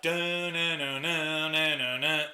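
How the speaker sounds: hummed bass riff. Retold or imitated. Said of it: "the opening riff is like".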